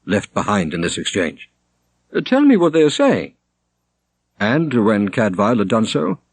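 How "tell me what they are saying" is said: high, loud, imperious command; a haughty churchman; demanding prior. A narrator's reading. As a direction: order the translator. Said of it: "demanded Prior Robert".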